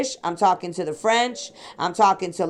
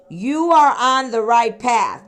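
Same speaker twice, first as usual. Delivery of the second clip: slow emphatic message; 4 dB louder, slower than usual. Retold or imitated. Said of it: "It says".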